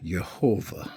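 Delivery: Yehovah as "yeh-HO-vah"; Y at the start of Yehovah, long O; Hebrew pronunciation. Shown as a demonstration. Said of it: "Notice the pronunciation".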